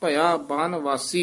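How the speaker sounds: full stop after ਬਨਵਾਸੀ; full pause after. Shown as a demonstration. Teacher marks the ਵਿਸਰਾਮ after ਬਨਵਾਸੀ. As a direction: rest fully after ਭਇਆ ਬਨਵਾਸੀ. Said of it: "ਇੱਥੇ ਵਿਸਰਾਮ".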